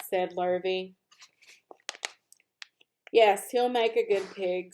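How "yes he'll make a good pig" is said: hushed whisper of the farmer. Acted. Farmer praising the pig to Lurvy, whispering. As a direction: breathe it out in a whisper. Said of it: "said Mister Zuckerman".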